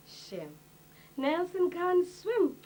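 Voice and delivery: mock white madam. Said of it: "you whites would just say".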